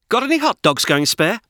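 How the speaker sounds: a hint of a gruff dog asking; lightly voiced dog, cheeky ask; lightly barked dog voice. A narrator's reading. Pip the dog cadges hot dogs, lightly barked. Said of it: "barked Pip".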